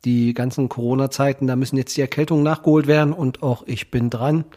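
blocked nose from a cold, nasal. Real, not acted. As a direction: speak stuffy-nosed with a head cold. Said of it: "mit meiner nasalen Stimme".

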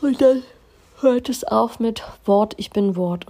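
emphatic lead into Wort, ich bin Wort; emphatic announcement. Shown as a demonstration. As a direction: build up to the mantra. Announcing the mantra.

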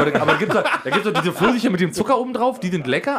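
giggling through the words; high, laughing, a bit embarrassed. Real, not acted. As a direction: laugh while you explain. Laughing about peach candy.

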